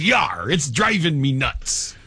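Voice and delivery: slow, lightly voiced pirate; a hint of a hammy pirate. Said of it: "the pirate says".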